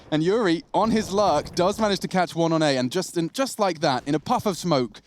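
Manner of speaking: esports caster voice, lifting as action builds; live play-by-play. Real, not acted. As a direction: call the round as it unfolds. Calls live esports round.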